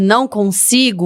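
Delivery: ordinary talk, nothing marked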